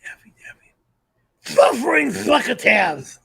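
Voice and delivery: a light cartoon duck voice; Daffy Duck. Shown as a demonstration. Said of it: "Do Daffy Duck".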